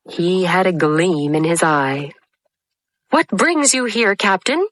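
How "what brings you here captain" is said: pirate sidekick. A narrator's reading. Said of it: "asked Smee".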